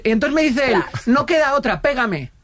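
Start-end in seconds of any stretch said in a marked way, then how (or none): 1.1-2.3 desperate plea. Retold or imitated. Panicking neighbour asks to be slapped.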